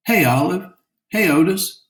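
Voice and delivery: men calling out. Acted. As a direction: call out to the twins from the card table. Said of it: "the men called".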